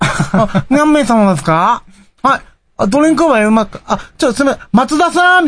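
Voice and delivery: flustered clerk. Retold or imitated. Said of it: "知らん人前がすごくダメな人なのね".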